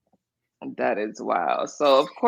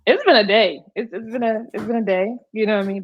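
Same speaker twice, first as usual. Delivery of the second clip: raised put-on voice, higher; fake high voice; 6 semitones higher than usual. Real, not acted. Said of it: "I'm trying not to fake it and use my fake voice".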